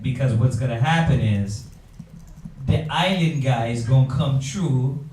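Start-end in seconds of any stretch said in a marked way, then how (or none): 2.7-5.0 bad Jamaican accent. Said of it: "my bad Jamaican accent".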